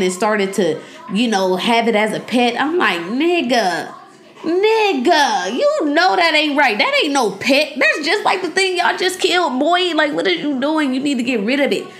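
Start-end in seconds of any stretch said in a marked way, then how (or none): 3.0-11.9 exasperated, higher-pitched telling-off; mock mad scolding. Viewer scolding Dustin over his pet, playfully mad. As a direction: scold a TV character, pitch jumping up mid-rant. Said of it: "I was mad about that".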